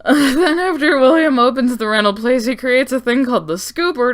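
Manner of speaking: laughing. Real, not acted.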